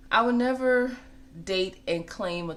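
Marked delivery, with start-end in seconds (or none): 0.1-1.0 never punched loud and high; stress on never. Real, not acted. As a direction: hit the word never hard. Emphatic declaration.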